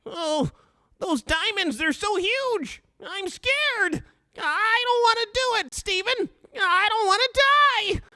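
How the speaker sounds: very high whining wail, mock terror; cowardly whimpering, high and drawn out; Lars impression. Host plays Lars scared of the diamonds, high panicky whine. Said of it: "you guys like my Lars impression?".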